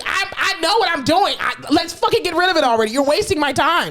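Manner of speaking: high, hurried mock insistence; lightly voiced impatient insistence; impatient retold self. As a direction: brush the counselor off, fast and high. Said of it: "I just kept telling the lady".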